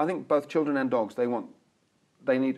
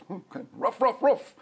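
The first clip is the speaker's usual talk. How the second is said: mock dog voice; 8 semitones higher than usual. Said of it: "Dog goes".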